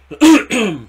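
high, loud drawn-out whoa; surprised whoa. Retold or imitated. Seeing that the price boxes were hit, a loud amazed whoa. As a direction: blurt it out in shock.

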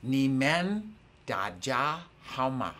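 "Ni men Daja, how ma" sounded out in separate chunks; phrase demonstration. Shown as a demonstration. Teacher shows class a new Mandarin phrase, "Ni men Daja, how ma" in chunks. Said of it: "it sounds like this".

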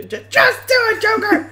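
high whining plea; whiny pleading. Retold or imitated. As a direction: beg in a high whine. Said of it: "He's like".

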